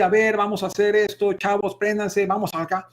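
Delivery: rally the youngsters with constant high energy; loud high energy. Shown as a demonstration. Speaker demonstrating a loud style to students, energetic rallying call. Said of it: "empiezas a hablar así con un volumen alto".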